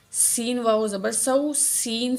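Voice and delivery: "سین" with a thin whistling s; whistling seen. Shown as a demonstration. Teacher shows how seen should sound, "سین" with whistling s. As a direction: let the s of "سو" whistle. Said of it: "سین کی آواز سیٹی کی طرح آنی چاہیے".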